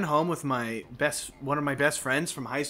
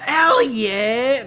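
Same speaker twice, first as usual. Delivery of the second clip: embarrassed mom snapping his name, higher and louder; scolding mom; 9 semitones higher, 7 dB louder than usual. Retold or imitated. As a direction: call him out like a mortified mother. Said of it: "my mom was just like".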